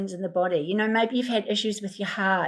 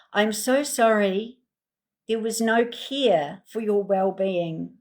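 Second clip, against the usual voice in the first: gentle unhurried comfort; tender healing affirmations to repeat; compassionate. Acted. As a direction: soothe the wounded inner child. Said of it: "I'm just gonna say this, and you can repeat it".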